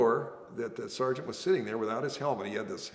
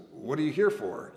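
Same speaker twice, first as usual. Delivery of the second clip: condescending; 4 semitones higher, 6 dB louder than usual. Retold or imitated. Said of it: "you know, kind of condescending".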